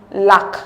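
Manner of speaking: lack said carefully as one clear syllable; pronunciation demo. Shown as a demonstration. Teacher reading option B for transcription, careful pronunciation of lack. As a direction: set lack apart, sounding its L and K. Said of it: "option B is pronounced".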